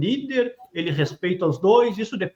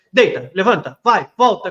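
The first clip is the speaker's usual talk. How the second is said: louder, rising mock commands to a dog; quick string of louder commands, climbing in pitch; imitating barked dog commands; 2 semitones higher, 5 dB louder than usual. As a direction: call the dog around like a kid showing off. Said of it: "ele fica comandando assim".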